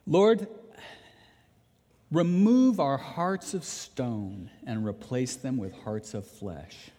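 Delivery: pastor leading the church in closing prayer, earnest. Real, not acted.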